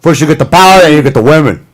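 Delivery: mock Cuban gangster accent; Tony Montana. Gangster explaining power, lightly hammed Cuban accent. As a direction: lay it down like a Cuban crime boss. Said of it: "let's do Tony Montana".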